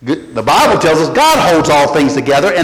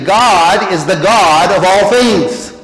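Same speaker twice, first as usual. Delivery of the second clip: slow, deliberate, every word weighted; slowly spelled out for the congregation; slow emphatic restatement; much slower than usual. Shown as a demonstration. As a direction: lay it down slowly so it sinks in. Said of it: "Let me say that again".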